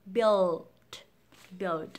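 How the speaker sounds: "build" with dark L and final D; correct build. Shown as a demonstration. Teacher reviewing last word, "build" with full L. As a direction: sound every ending consonant of "build". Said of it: "Cùng ôn lại bốn từ này".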